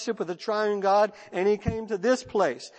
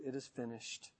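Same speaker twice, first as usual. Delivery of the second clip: final breath; 7 semitones lower, 19 dB quieter than usual. Acted. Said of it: "in his final breath he said".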